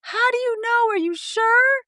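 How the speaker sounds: high, sarcastic questioning; mock doubt. Coach mimicking clients who argue, high mocking questions. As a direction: needle them up high. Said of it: "And I'm like".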